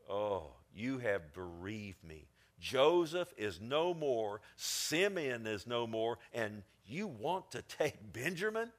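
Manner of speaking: slow, heavy lament; grieving Jacob. Acted. Old Jacob grieving over his lost sons, slow lament. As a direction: mourn each lost son.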